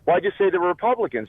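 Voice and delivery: high-pitched puzzled objection in a joke; curious, puzzled. Acted. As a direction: act out a baffled man double-checking what he was told. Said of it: "And he's curious. He's like".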